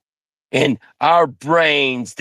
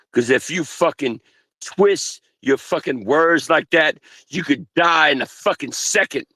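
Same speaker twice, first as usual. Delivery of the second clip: usual speaking voice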